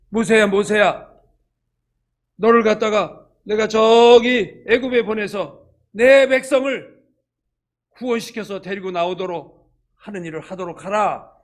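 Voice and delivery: a touch of a solemn divine voice; God calling out. Acted. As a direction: call his name like God from above.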